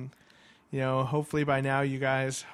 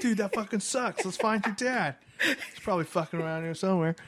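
lightly raised, fake-chill dude voice; mock dude voice; 6 semitones higher than usual. Retelling the lost kid, a mock dude voice. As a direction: play the lazy stoner worker, half-joking. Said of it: "I didn't say any of that".

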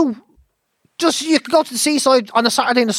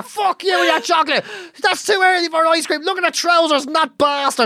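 higher, slow mock rage at strangers; mock grumpy rant; 6 semitones higher than usual. Mocking a friend in a bad mood sneering at strangers, mock rage. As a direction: sneer at passers-by. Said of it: "And there you are".

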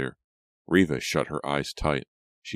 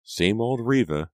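high-pitched fond jibe; acted amused remark; amused teasing; 7 semitones higher, 4 dB louder than usual. A narrator's reading. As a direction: tease a cousin, voice lifted. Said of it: "Pam snickered".

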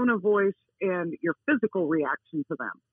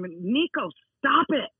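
higher-pitched telling-off of a dog; imitated holler; 5 semitones higher, slower than usual. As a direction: holler at the dog, not quite full force. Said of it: "And I holler at him".

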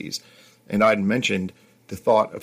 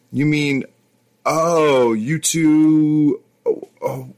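surprised; 6 semitones higher, 5 dB louder, much slower than usual. Acted. Narrator stunned by girls' confession.

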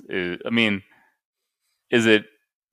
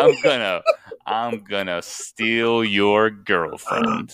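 slow, drawn-out mock French Gaston voice; French accent; much slower than usual. Boasting as Gaston to the others, in a slow mock French accent. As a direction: ham up a slow cartoon French villain. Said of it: "is it offensive to do a French accent".

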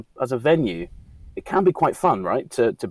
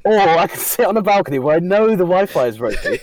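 imitating Chris's thinking; 8 semitones higher, 6 dB louder than usual. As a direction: play out his dithering thoughts, raised pitch. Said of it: "One of them was".

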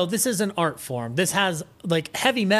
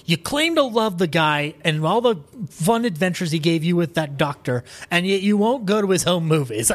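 louder, exasperated mock rant at moviegoers; 3 semitones higher, 4 dB louder than usual. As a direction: scold the audience in a half-joking huff. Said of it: "I'm like".

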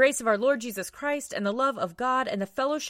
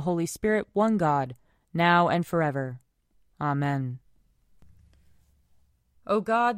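solemn prayer. Acted. Leads prayers at a service.

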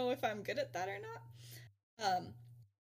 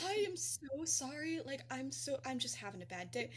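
much softer, soothing retold apology; 2 semitones higher, 7 dB quieter than usual. Professor to crying pupil, softly apologetic. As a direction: drop the volume to placate someone upset.

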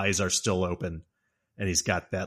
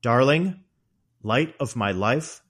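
hammed-up lovey-dovey villain; sarcastic sweetness toward his cornered wife; mock tender; 3 semitones higher, 5 dB louder, slower than usual. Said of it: "He's doing different voices".

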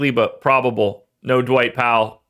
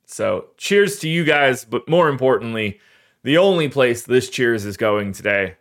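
voice cracking. Real, not acted. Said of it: "Oh, my voice is cracking".

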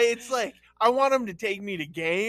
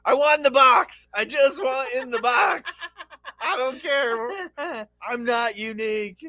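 desperate plea; 7 semitones higher, 5 dB louder than usual. Pretend. Acted single man pleading.

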